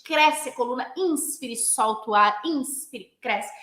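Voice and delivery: punchy rhythmic breathing cues; flowing, vigorous rhythm. Shown as a demonstration. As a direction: cue each breath on the beat. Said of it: "Eu vou dar esse ritmo". (comandos ritmados de respiração)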